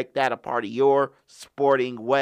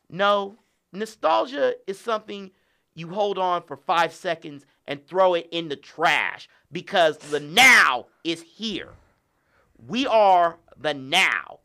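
wrestling promo. Pretend. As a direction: talk down to him like a cocky champ. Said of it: "Cut a promo on him".

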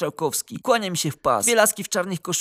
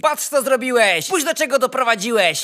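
raised-voice condemnation; accusing shout; 5 semitones higher, 5 dB louder than usual. A narrator's reading. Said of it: "wyrwał mnie krzyk".

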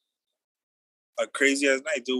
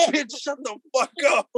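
higher, slower mock yell, words stretched out; retold yell; 10 semitones higher, slower than usual. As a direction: replay the yell drawn out for the laugh. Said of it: "I was just like".

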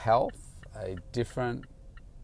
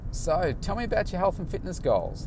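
bright, eager coach question pitched up high; excited; 8 semitones higher than usual. Retold or imitated. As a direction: pump real enthusiasm into the question. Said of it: "I'm talking like this, you know, excited and stuff".

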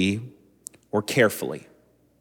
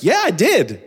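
put-on much higher and louder, a cheerful child owning up; happy little boy; 10 semitones higher, 5 dB louder than usual. Son Xavier cheerfully admitting the mess, high child voice. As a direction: chirp it like a proud toddler. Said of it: "He's like".

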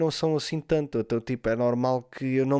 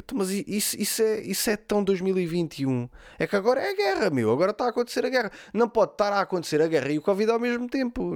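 higher-pitched incredulous protest; mock indignant; 6 semitones higher than usual. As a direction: imitate a friend objecting in disbelief. Friend's retold indignant reply. (protesto indignado imitado)

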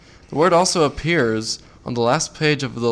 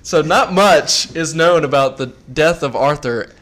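laughing; 6 dB louder than usual. Real, not acted. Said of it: "You're making me feel self-conscious".

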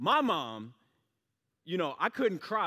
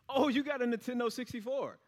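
mocking friend; 9 semitones higher than usual.

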